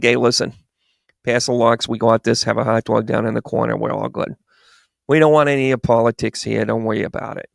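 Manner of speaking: mock New Yorker slipping into Rhode Island; New York accent. New Yorker waving away politics, in a put-on New York accent. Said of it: "went a little Rhode Island on that".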